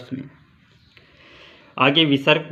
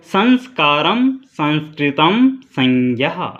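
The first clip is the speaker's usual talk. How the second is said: slow example words; slower than usual. Shown as a demonstration. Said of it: "बता रहा है यहाँ पे".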